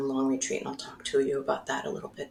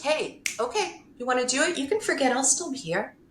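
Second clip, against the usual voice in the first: sassy, teasing mother voice, pitched higher; 5 semitones higher than usual. Retold or imitated. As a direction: tease like a cheeky mother who knows best. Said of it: "she was very sassy".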